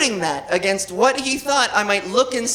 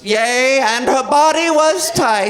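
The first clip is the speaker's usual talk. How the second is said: slow, drawn-out holy proclamation; mock scripture reading; 3 dB louder, slower than usual. Comic quoting a line of scripture, mock-solemn. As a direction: intone it like bogus scripture. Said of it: "a line in the scripture".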